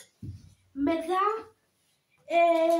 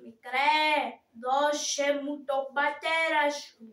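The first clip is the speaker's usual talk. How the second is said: loud, slow commanding officer; officer's voice; 4 dB louder, slower than usual. Shown as a demonstration. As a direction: order the boy like a puppet officer. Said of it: "Να σας κάνω και τη φωνή". (δυνατή, αργή φωνή αξιωματικού)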